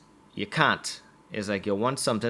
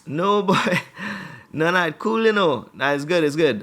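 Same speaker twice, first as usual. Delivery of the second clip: acted uneasy listener; 6 semitones higher, 5 dB louder than usual. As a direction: politely back out of seeing the scars. Acted listener declining to see scars.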